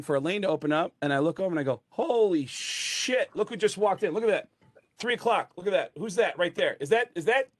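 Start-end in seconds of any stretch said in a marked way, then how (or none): 1.9-7.5 high-pitched disbelief, first words stretched; starstruck amazement. Retold or imitated. Comic spotting a rock star at the bowling alley, amazed. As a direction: point out the famous arrival in mock awe.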